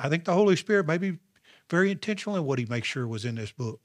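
sarcastic. Shown as a demonstration. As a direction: say it with heavy sarcasm. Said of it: "That's me being sarcastic".

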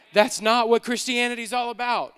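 loud, forceful preaching; emphatic repeat. Real, not acted. Preacher correcting the church's idea of faith, emphatic and loud. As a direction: drive the point home at full volume.

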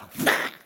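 sudden burst of noise; imitated whoosh. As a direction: make a short explosive whoosh. Imitating sudden sweep of power.

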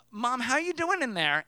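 retold call through a bathroom door. Calling to mom through restroom door.

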